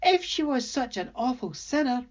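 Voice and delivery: amused demon. A narrator's reading. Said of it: "as she hooted with laughter".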